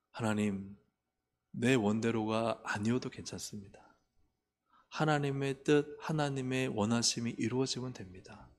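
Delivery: humble prayer. Shown as a demonstration. Model humble surrendering prayer.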